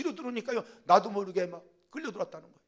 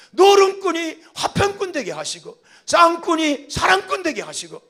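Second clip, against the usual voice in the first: pleading wife praying for her husband; wife's prayer; 5 dB louder than usual. Shown as a demonstration. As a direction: plead for the drunken husband, building louder. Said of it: "이렇게 기도하는 거예요". (남편을 위해 간절히 기도하는 아내, 점점 커지며)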